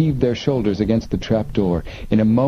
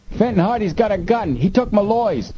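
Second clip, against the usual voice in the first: very high, urgent warning; warning call; 13 semitones higher than usual. A narrator's reading. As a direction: call a warning from the far side. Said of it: "came a warning voice from the far side".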